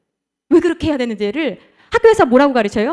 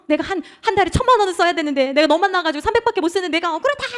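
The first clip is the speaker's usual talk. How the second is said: high-pitched mock wail of grievance; hammed-up aggrieved wife; feeling wronged; 6 semitones higher than usual. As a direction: whine indignantly as if hard done by. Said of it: "억울하다는 거예요".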